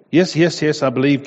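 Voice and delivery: high, loud eager panic; frantic yes. Acted. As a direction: blurt it out desperately, clinging on. Terrified man eagerly answers voice.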